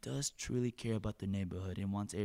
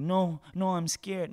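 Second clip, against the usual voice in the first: mock scared whine; 7 semitones higher, 5 dB louder, slower than usual. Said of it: "He was like".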